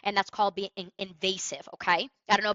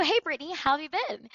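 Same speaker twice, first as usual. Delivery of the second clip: "Hey, Brittany" with a smile in the voice, lifted high; smiling greeting; 4 semitones higher than usual. Shown as a demonstration. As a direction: greet with a smile you can hear. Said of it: "my tone is fluctuated".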